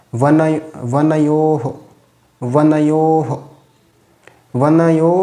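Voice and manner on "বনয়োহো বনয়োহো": "বনয়োহো" with long yo and short ho; visarga as ho. Shown as a demonstration. Teacher shows visarga after o, demonstrating pronunciation. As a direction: hold yo in "বনয়োহো", then a brief ho. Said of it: "এখানে উচ্চারণটা কী হবে?".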